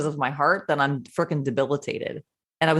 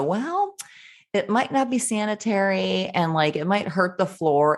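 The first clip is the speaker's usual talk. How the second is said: mock timid objection; 4 semitones higher than usual. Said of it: "I wouldn't argue and go".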